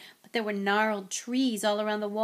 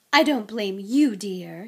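reassuring; 7 dB louder, slower than usual. Acted. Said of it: "she assured Harry".

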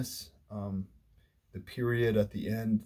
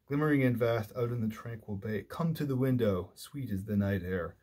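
measured verse reading with stressed line openings; poem recitation. Acted. Lecturer quoting the poem to a class, recited in measured verse. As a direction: read it as verse, leaning into each opening word.

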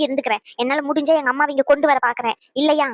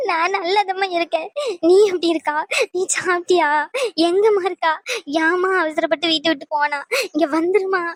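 weepy, put-on motherly begging; tearful pleading; 3 semitones higher than usual. Mother begging daughter to come home, tearful pleading. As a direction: plead with her through tears. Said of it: "அழுவாத".

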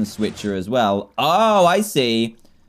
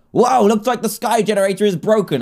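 odd character voice; 7 semitones higher, 4 dB louder than usual. Acted. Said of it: "Why am I talking like that?".

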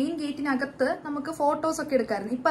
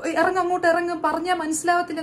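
a lightly louder imitation of a barked order; guard shouting at first-time visitors, mild mock shout; 3 dB louder than usual. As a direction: mimic an official yelling at pilgrims. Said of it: "shout ചെയ്യുന്ന".

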